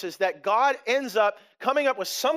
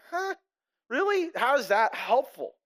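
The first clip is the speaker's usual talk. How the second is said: mock puzzled; 3 semitones higher than usual. Reader puzzled by God's answer.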